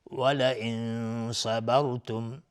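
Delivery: the noon in ولئن hummed through the nose into the sad of صبرتم; slow recitation, hold a nasal hum at the end of ولئن; ikhfa recitation. Shown as a demonstration. Quran teacher demonstrating hidden noon, ولئن drawn out nasally before صبرتم. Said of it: "نون ساکن بهش صا اخفای حقیقی".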